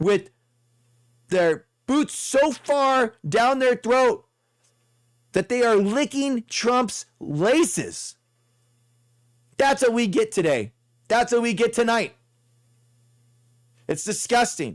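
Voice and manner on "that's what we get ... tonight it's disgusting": fast, heated, worked-up tirade. Ranting to a live audience, yelling. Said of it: "sorry I'm yelling".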